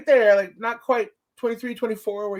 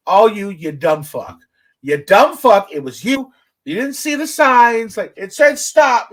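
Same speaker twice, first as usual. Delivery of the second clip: angry; 6 dB louder than usual. Real, not acted. Ranting at careless people.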